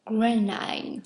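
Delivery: French-tinged attempt at English; bad English accent. Real, not acted. Vlogger repeats the pattern name, bad English accent. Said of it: "j'avais un super accent anglais".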